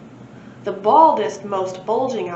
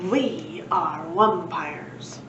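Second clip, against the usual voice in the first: creepy wumpire; 3 semitones lower, much slower than usual. Acted. Wumpires introduce themselves.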